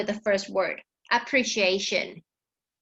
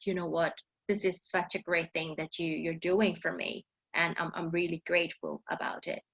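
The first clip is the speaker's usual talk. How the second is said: sincere thanks; 3 semitones lower, 6 dB quieter, faster than usual. Shown as a demonstration. Teacher voices a sincere thanks.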